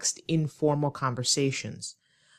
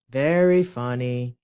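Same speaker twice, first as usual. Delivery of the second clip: sarcastic; 4 semitones lower, 4 dB louder than usual. Shown as a demonstration. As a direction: stretch it out with mock amusement. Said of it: "That response is sarcastic".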